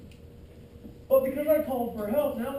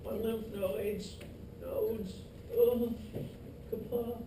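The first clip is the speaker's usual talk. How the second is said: mock sick complaint; 9 dB quieter than usual. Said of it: "you're like".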